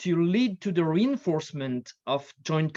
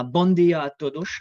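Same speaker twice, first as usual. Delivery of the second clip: a louder, self-conscious attempt at Portuguese with a French accent; Portuguese greeting; 7 dB louder than usual. Real, not acted. Guest speaker greets the Portuguese hosts, louder, in French-accented Portuguese. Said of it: "my Portuguese accent is so brilliant".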